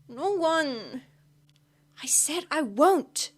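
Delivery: high, loud, desperate refusal; loud protest. Acted. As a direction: refuse her, nearly shouting. Drunk friend refuses help loudly.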